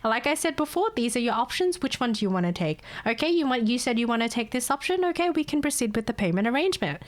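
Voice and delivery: calm, patient agent voice; calm and unbothered on the call; calmly. Retold or imitated. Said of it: "I sit here all calmly saying".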